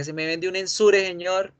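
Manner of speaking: cliente de droguería. Acted. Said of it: "Cada vez que van a la droguería".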